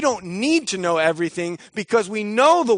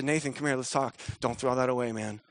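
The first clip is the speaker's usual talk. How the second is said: lower, softer talk-down; gentle counsel; 6 semitones lower, 5 dB quieter than usual. Retold or imitated. A prophet counseling Nathan, soft and low. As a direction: pull him aside kindly. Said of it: "someone steps and says".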